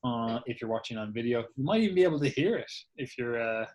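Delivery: chewing grapes while talking; mouth full. Real, not acted. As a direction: talk through a mouthful of grapes. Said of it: "I am munching down on some grapes here".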